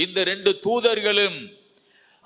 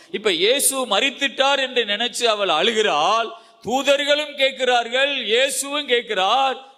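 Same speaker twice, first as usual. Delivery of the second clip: raised-voice preaching; 5 semitones higher than usual. Real, not acted. Preacher telling the congregation of Mary weeping, raised-voice preaching. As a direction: preach it out with rising insistence.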